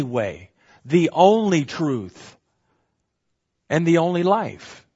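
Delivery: only stressed each time, said slowly; emphatic listing. Shown as a demonstration. Teacher hammers the only way, truth and life, slow and emphatic. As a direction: spell out each only deliberately. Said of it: "There's an emphasis here".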